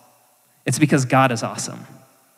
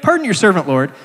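pleading apology; 5 semitones higher, 4 dB louder, faster than usual. Acted. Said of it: "he recognizes he's taxing God's patience".

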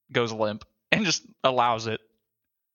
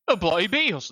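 higher-pitched fake British phrase; mock British accent; 4 semitones higher than usual. Showing what I say when I'm British, mock British accent. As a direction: toss it out in cartoon British. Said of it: "when I'm British, I go".

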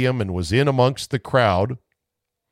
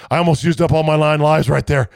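louder, rushed panicky voice; cat's panicked thoughts; 3 semitones higher, 3 dB louder, faster than usual. Pretend. Host voicing the terrified cat in the crowd, rushed panicky voice. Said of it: "It's like".

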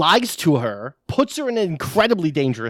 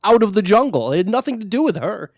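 mock indignation; 4 semitones higher, 4 dB louder than usual. Mock retort to film's villain.

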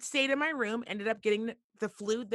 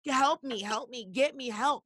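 higher-pitched imitated cry for help; mock urgent begging, pitched up; urgent plea; 3 semitones higher than usual. Her body pleading with her for help, urgent.

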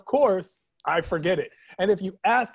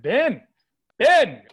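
loud, high douchebag greeting, name stretched out; D-bag voice; 4 semitones higher, 5 dB louder, much slower than usual. Acted. Douchebag greeting the podcast host by name, obnoxious D-bag voice. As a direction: holler the name like an obnoxious bro. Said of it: "that was my D-bag voice".

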